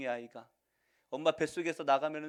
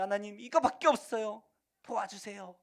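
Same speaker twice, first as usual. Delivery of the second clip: desperate plea; 8 semitones higher, 6 dB louder than usual. Retold or imitated. Desperate prayer voiced.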